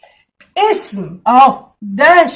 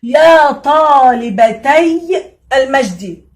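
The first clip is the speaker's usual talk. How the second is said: slow stressed recitation; much slower than usual. Shown as a demonstration. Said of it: "هنلاحظ هنا لو قلنا".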